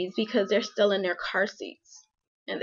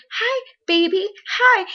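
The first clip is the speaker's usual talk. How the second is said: high, sing-song baby talk, mimicking the son; imitating baby talk; 12 semitones higher, 6 dB louder than usual. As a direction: coo at them like a little kid. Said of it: "and he like".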